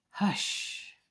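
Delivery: whispered and unvoiced, hushing; secretive whisper. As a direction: hush the listener like someone hiding. Hiding octopus hears someone.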